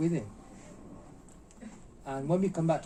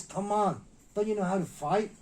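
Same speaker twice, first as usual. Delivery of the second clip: higher-pitched exasperated challenge; retold scolding; 6 semitones higher, 4 dB louder than usual. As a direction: mimic a master berating his student. Master berates student in retelling.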